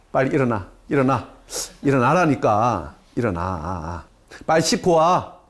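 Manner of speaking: mock nagging. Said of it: "엄마들이 본격적으로 잔소리가 시작돼요".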